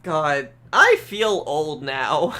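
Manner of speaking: put-on slow, drawn-out old man voice. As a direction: sigh it out like a tired old man. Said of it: "my old man voice".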